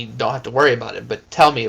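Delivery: usual speaking voice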